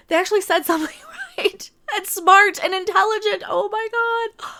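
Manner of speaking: high, stunned, laughing disbelief; mock amazement. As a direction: act floored by it.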